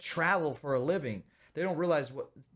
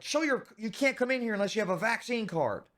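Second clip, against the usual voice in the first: mock doorman; 8 semitones higher, 3 dB louder than usual. Mocking doorman demanding vaccine card.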